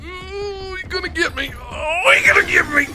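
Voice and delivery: very high panicked whine; high squealing fear. Real, not acted. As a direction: squeal like you're being caught. Being chased, squealing fear.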